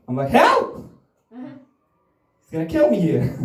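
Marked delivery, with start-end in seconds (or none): 0.3-0.9 shrill high yelp for help; hammed-up call for help from a bar fight; mock cry for help. Calling for help from attacker. 1.3-3.4 mock panic. Panicked under attack.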